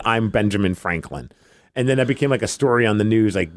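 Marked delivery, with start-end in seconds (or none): 0.0-1.3 deadpan. Retold or imitated. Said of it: "so he just said".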